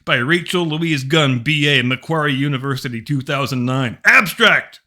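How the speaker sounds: overwrought theatrical reading; hammy stage actor. Acted. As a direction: read it like a pompous stage actor. Mock-dramatic reading of thesis.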